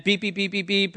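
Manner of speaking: soft imitated beeping, quick and even; register beeps. Pastor imitates the failing register for the congregation, soft beeps. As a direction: mimic a cash register erroring out, softly. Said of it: "all you hear is beep".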